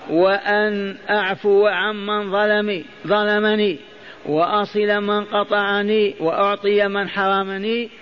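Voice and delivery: normal talking voice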